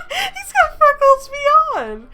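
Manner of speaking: loud, high-pitched hilarity, stretched out; laughing. Real, not acted. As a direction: crack up while exclaiming, voice soaring. Reader cracks up at text.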